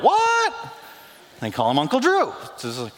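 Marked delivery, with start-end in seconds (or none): 0.0-0.5 shocked high yelp; astonished high what; stunned what. Retold or imitated. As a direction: react like you can't believe it. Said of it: "people are like".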